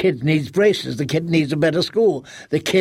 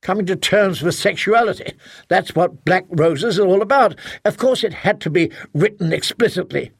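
heated defense; 4 semitones higher than usual. Acted. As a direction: argue back, exasperated. Husband defends book, insults wife.

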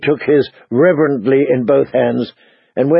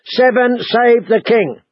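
raised, slow toasting call; cheerful toast; 10 semitones higher, slower than usual. Acted. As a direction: lift a glass and call it out. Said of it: "called out cheerfully".

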